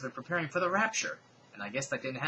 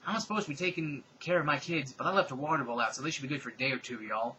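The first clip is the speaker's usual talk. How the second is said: impression of a singer; 2 semitones higher than usual.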